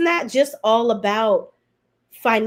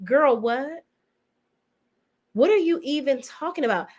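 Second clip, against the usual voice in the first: put-on incredulous girl what; 5 semitones higher than usual. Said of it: "looking at her like".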